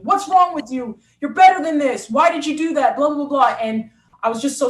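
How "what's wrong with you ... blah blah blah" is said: scolding coach. Retold or imitated. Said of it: "so he was getting after me".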